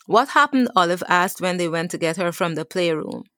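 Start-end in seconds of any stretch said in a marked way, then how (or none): 0.1-0.7 put-on higher, curious small-child question; a young girl wondering aloud; little child. Little Olive asking her mother, higher and curious.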